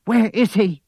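high, loud demand; crying out. A narrator's reading. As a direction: cry out the question forcefully. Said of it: "she cried".

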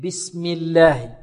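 slow بسم الله with thin l after kasra; thin the lam in بسم الله; light lam. Shown as a demonstration. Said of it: "وإذا كسرت ماذا تقول؟". (ترقيق اللام في بسم الله)

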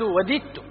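وددت said wadidtu; وددت with kasra on the middle letter; careful wadidtu; correct kasra. Shown as a demonstration. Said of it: "بكسر العين".

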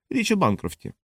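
icy villainess, mocking and sure of herself; cold mocking woman. A narrator's reading. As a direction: voice Kawahara sneering down at Kovacs. Kawahara voiced by narrator.

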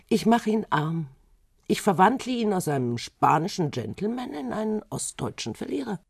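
wife plotting to ruin her husband, rising vengeful vow; vengeful threat. Acted. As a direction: spit out the revenge plan, pitch climbing.

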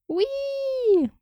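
high excited squeal; delighted squeal. A narrator's reading. Friend spots the dress in the wardrobe, squealing with delight. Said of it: "завизжала девчонка".

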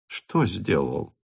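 low, soft, slow mother; calmly baffled; puzzled mother. A narrator's reading. Countess asks her daughter, puzzled.

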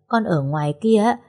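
plain reading voice

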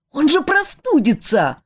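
high alarmed exclamation; exclaiming. A narrator's reading. Friend worries the prince will catch cold, high exclaiming. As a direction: cry out in worry. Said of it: "снова вскричал Жак".

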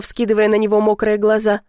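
ordinary delivery

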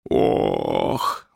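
long, low ghostly groan; drawn-out deep moan; theatrical moan. A narrator's reading. Ghost trying to haunt the house, moaning low. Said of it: "простонал он громко, как только мог".

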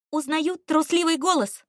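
high, loud, playful call; perky exclamation. A narrator's reading. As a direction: exclaim it with teasing zest. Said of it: "задорно воскликнула". (задорно, громко и высоко)

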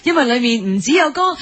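ordinary talk, nothing marked

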